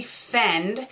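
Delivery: "friend" said as "fend", without the R; misspelling read literally. Acted. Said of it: "they spelled fiend wrong".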